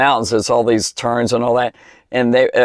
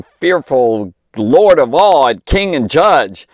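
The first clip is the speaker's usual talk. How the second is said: thundering; 3 dB louder, slower than usual. Real, not acted. Preaching Jesus as fearful Judge.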